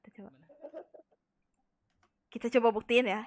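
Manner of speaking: ordinary talk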